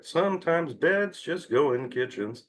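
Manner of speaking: sing-songy voice. Shown as a demonstration. Speaker demonstrates defusing an odd thought to viewers, sing-songy voice. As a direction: chant it lightly in a mock sing-song. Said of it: "doing it in a sing-songy voice".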